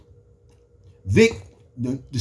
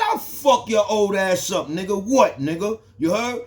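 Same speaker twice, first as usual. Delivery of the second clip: threatening shout; 4 semitones higher than usual. Retold or imitated. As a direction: jump up and threaten him. Acted threat in jail quarrel.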